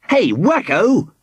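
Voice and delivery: high, drawn-out crowing; triumphant cry. A narrator's reading. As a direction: crow it slowly in triumph. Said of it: "Squidgy cried triumphantly".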